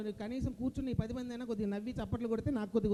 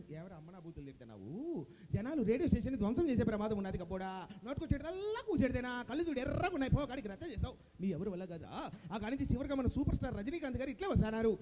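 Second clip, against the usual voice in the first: Jayaprakash Reddy impression. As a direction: tell the performer off, then announce the star. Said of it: "Jayaprakash Reddy గారు".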